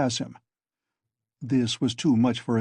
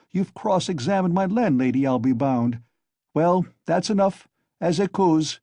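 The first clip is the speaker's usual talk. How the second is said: hysterical excitement; 4 semitones higher, 3 dB louder than usual. Acted. Feverish taunting of Zametov.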